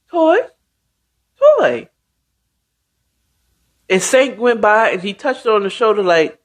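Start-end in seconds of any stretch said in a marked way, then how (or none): 0.1-1.9 high calling voice, searching. Retold or imitated. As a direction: call her name, worried. Mother calling daughter's name.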